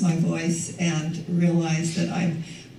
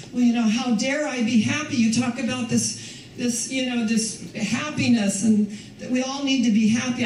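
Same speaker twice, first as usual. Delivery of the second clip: mock complainer; 5 semitones higher than usual. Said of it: "And I have people say".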